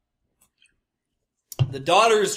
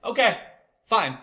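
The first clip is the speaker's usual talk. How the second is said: raised high, mock-giving-in okay; high placating okay; 5 semitones higher than usual. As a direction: cave in with a high reluctant okay. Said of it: "I'm like".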